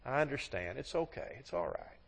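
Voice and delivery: soft, forgiving husband; gentle reassurance. Acted. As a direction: soothe her quietly, letting it fade. Husband forgives and comforts wife.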